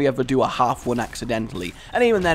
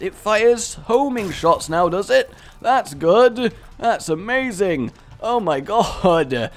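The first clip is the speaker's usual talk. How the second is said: sarcastic; 8 semitones higher, 4 dB louder, slower than usual. Real, not acted. Sarcastic about boss homing shots.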